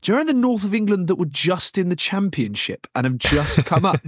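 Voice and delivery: a hint of an innocent young player; naive young player. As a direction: press the agent innocently. Player pressing agent.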